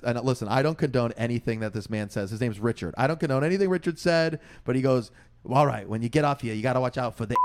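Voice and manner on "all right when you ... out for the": imitated Queens local giving a warning; retold Queens accent. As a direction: warn like an old Queens guy. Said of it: "Like, deepest Queens accent".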